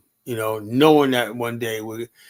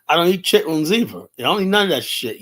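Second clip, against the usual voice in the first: emphatic rant; 5 semitones higher, 4 dB louder than usual. Real, not acted. Heated rant about not eating bushmeat.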